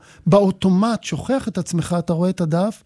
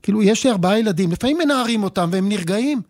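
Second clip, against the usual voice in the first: irritated outburst; 3 semitones higher than usual. Retold or imitated. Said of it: "ואני אומר לה".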